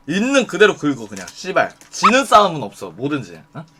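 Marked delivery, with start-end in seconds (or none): none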